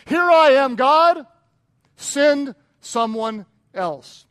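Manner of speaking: loud, high, then slow drawn-out excuse; mocking excuse. Preacher mimicking churchgoers' excuses to God, loud mock plea. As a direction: belt it out then drag the excuse.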